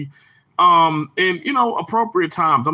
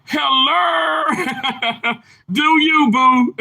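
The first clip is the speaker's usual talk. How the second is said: high, stretched-out hello; imitating Johnny; 8 semitones higher, slower than usual. Streamer copying Johnny's hello, playful imitation. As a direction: mimic a playful catchphrase greeting. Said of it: "How Johnny said, Coon Beans".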